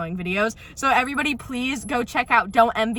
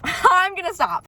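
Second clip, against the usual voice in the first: laughing it out, higher and slower; 8 semitones higher, 4 dB louder, slower than usual. Real, not acted. Catching herself ranting, laughing as she stops. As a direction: giggle through the promise to stop.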